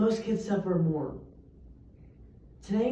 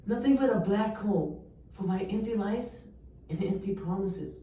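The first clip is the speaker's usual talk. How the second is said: poem recital. Acted. Student reciting a poem about an absent dad, solemn. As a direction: let each image land in the pauses. Opening spoken-word poem.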